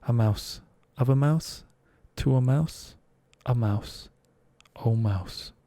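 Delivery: chanted like a declension drill; sing-song schoolroom recitation of a mouse, of a mouse; reciting Latin grammar. Acted. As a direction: recite each case of mouse in turn. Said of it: "in her brother's Latin grammar".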